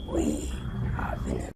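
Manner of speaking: low monster declaration; Venom impression. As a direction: announce it darkly. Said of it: "He said".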